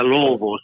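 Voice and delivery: Louisville said as "LOO-uh-vull"; affectionate local pronunciation. Shown as a demonstration. Coach teaching the affectionate way, Louisville as "LOO-uh-vull". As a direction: run Louisville together loosely, no "ee". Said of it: "the affectionate way is".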